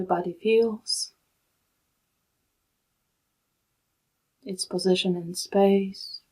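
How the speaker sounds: calm, unhurried meditation guide with long pauses; soothing, even delivery in short, spaced-out phrases; guided meditation. Real, not acted. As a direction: guide them gently into stillness, leaving long silences.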